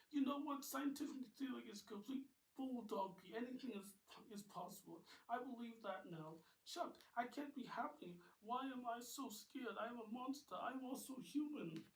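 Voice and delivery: high, anxious rush of words; Molly confessing her fear; scared outburst. Acted. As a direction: voice up and tense with fear.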